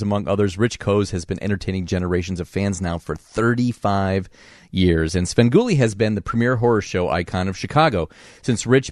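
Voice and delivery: upbeat broadcast introduction read; radio host intro. Acted. Radio host introducing his guest to listeners, upbeat read.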